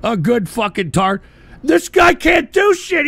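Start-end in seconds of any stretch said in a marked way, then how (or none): 1.6-3.1 an angry slow yell; slow shout. Real, not acted. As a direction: spit it out slowly. Rant after call.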